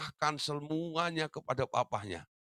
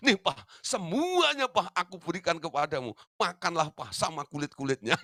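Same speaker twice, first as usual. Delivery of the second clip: laughing mock. Youngest mockingly gives all back.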